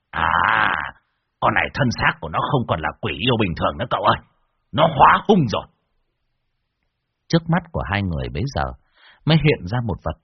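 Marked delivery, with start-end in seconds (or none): 0.1-5.7 mild shout. Acted. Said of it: "lão quát lên".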